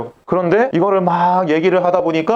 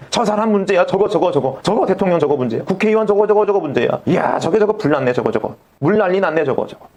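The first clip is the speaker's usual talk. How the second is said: grumbling mock critic; lightly acted finger-pointing complaints, repeated in little bursts; 비난하는 말투 흉내; 2 semitones higher than usual. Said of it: "세상을 그렇게 막 욕하고 있어요". (남을 욕하듯 투덜대는 흉내)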